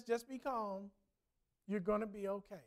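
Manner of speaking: softly voiced reassurance, a touch hushed; retold whisper. Stranger calming a woman in a crowd, softly. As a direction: hush it gently like calming her. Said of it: "just whispers into her ear".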